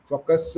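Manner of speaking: "focus" with an extra uh after the final s; learner's mispronunciation. Shown as a demonstration. Teacher showing a learner's slip, "focus" mispronounced with a trailing uh. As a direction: add a small vowel to the end of "focus". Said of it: "focus on your pronunciation".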